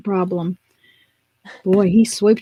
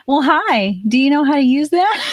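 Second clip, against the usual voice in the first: eager sales pitch; 3 semitones higher, 3 dB louder than usual. Pretend. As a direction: mock-friendly pounce on a shopper. Friend imagined pouncing on shoppers.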